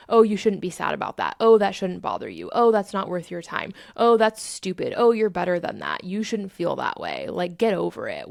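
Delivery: acted scolding inner critic; mildly voiced dismissive judgement; judging ego. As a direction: list the put-downs like a critical ego. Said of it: "my ego is judging and criticizing".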